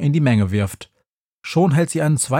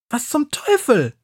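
much higher, startled cry of a shopper; startled woman; 11 semitones higher than usual. A narrator's reading. Woman whose box is knocked from her hand, startled. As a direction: jolt up as the box is knocked away. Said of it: "sagt die Frau".

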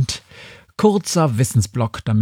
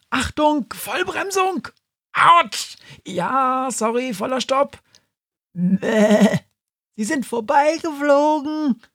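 excited high voices; 10 semitones higher than usual. Acted. Characters braking hard in flight.

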